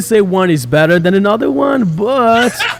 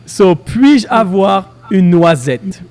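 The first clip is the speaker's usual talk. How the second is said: over enunciating; slower than usual. Shown as a demonstration. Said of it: "So the first one is".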